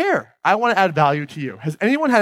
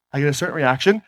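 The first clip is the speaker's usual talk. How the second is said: one tone of voice; 3 semitones lower than usual. Shown as a demonstration. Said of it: "when I speak in this tone of voice".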